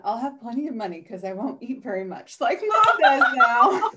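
laughing through a quote of her daughter; a quoted line broken up by her own laughter. Retold or imitated. Mother retelling her daughter's joke, laughing.

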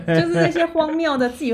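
"这些" said high and loud through laughter; laughing, stress on "这"; laughing restatement. Real, not acted.

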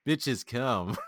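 put-on Russian accent, falling. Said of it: "with a Russian accent".

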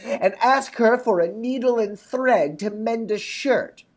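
slow, commanding stepmother; lightly voiced cruel stepmother; wicked stepmother. A narrator's reading. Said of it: "says she".

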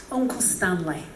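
put-on British accent. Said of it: "he was British".

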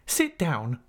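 brief order, pitch lifted; stern command. Acted. Mister Mell orders the defiant pupil to sit, stern and brief.

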